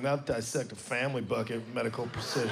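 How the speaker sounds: mock the old British guide; a lightly voiced spooky British guide. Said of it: "scariest British voice".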